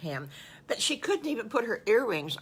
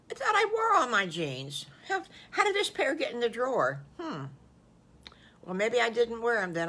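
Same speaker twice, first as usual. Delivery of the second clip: put-on higher, wondering child voice; puzzled little wolf; 5 semitones higher than usual. Little wolf muttering to himself about the jeans, higher and puzzled. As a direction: sound baffled, like a boy who can't explain it.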